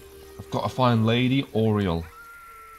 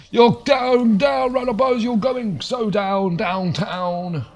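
taunting trash talk; 8 semitones higher, slower than usual. Pretend.

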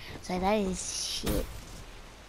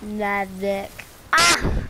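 holding tongue; 5 dB louder, much slower than usual. Pretend. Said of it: "Say magic".

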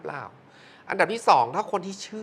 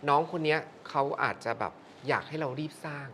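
a lower, softer hint of an old monk; lightly voiced monk; 3 semitones lower, 7 dB quieter than usual. Host lightly imitating the monk's advice, low and soft. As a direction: ease into it, hushed and low like a monk. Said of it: "หลวงพ่อก็บอกว่า".

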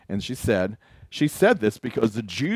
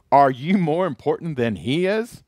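challenging jab; 4 semitones higher, 4 dB louder than usual. Retold or imitated. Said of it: "shots fired".

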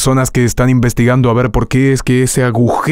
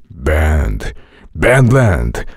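held trailer voice; 8 semitones lower, much slower than usual. Shown as a demonstration. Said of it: "Retén esa voz que habías hecho".

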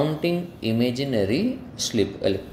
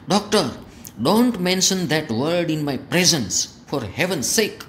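raised, pleading cry at the doctor; angry shout; 5 semitones higher, much slower than usual. Acted. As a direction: beg him to stop, voice up high. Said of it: "અને રાડ પાડી". (ગુસ્સામાં બૂમ)

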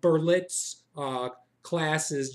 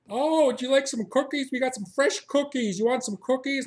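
pushy barista; 7 semitones higher, 4 dB louder than usual. Retold or imitated. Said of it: "we're like".

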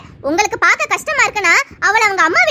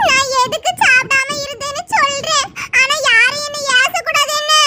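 tearful plea; 2 semitones higher than usual. Acted. Pregnant wife about to confess.

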